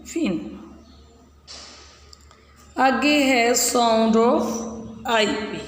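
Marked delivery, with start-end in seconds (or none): 2.8-5.6 announcing the next sound. Shown as a demonstration. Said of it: "read aloud".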